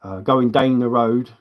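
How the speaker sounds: put-on a light, slowed Sussex accent; mum's Sussex accent. Son imitating his mum's Sussex accent, slow and light. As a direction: drawl it in a hint of rich Sussex accent. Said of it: "she says things like".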